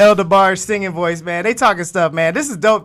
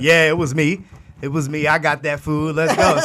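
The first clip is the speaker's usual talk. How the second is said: faking a manly bass voice, slightly; mock tough bass voice; put-on deeper voice; 3 semitones lower than usual. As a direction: try to sound deeper. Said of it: "a little bit more bass in my voice".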